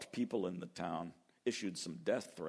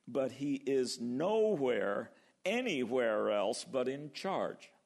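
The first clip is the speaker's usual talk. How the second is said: slow reassurance; slower than usual. Real, not acted. Reassuring congregation.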